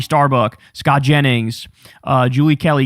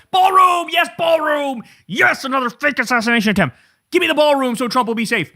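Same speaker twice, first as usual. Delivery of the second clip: much higher, sneering parody of a gushing fan; mocking high voice; 7 semitones higher than usual. Mocking MAGA influencers begging for the ballroom, in a high parody voice. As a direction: squeal it like a dim fanboy.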